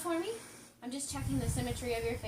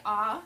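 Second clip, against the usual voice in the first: demo ah; 8 dB louder than usual. Shown as a demonstration. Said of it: "and then say".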